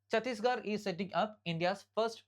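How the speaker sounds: very slow, deliberate headline read; slow dictation. Shown as a demonstration. Teacher reading current affairs headline to students, very slow. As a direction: spell out each word for note-taking. Reads headline slowly for notes.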